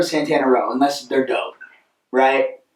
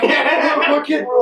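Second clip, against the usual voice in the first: laughing; 8 semitones higher than usual. Real, not acted. Laughing under the truck.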